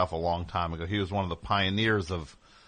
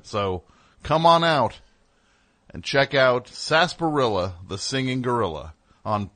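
radio ad voice. Pretend. Mock radio ad read.

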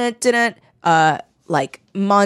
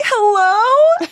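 high nervous hello; 12 semitones higher, 4 dB louder than usual. Retold or imitated. Victim answering the caller.

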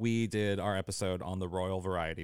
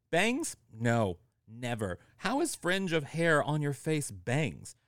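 mock outraged reading; 6 semitones higher than usual. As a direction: read it like a scandalised Brit. Letter's mock outrage, read aloud.

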